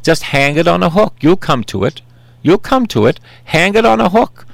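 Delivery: put-on high, lilting Texan accent; Marge Broccoli, Texan accent. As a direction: imitate a Texan woman coaxing you along. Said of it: "with her Texan acc-, accent".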